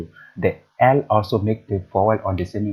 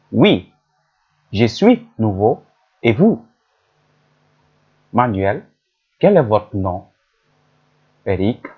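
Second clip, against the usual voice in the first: lightly voiced newcomer and local, a bit louder; role-played dialogue; 3 dB louder than usual. Teacher voicing Manuel and Eric asking the way, lightly acted. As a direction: read both parts of the dialogue clearly. Reads a conversation, two roles.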